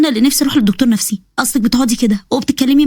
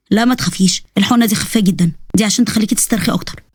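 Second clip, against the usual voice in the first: lower, calm doctor voice; 3 semitones lower than usual. Acted. Doctor calmly settling his nervous patient, lower voice.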